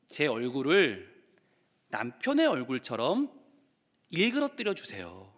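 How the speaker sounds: quiet slow plea. Retold or imitated.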